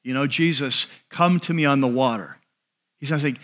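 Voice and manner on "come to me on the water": calm, slightly lowered invitation; mild, understated call to follow; gently leading. Retold or imitated. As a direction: invite them along without pushing. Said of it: "that God's voice leads".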